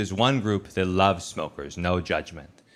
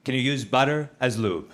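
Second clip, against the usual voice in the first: put-on earnest kid question; 4 semitones higher than usual. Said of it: "He goes".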